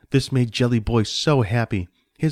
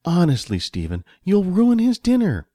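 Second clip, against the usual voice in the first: higher-pitched exasperated reproach; scolding wife; 8 semitones higher than usual. Acted. Wife warns Stephen about spoiling dinner, exasperated. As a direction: scold your husband, voice lifted.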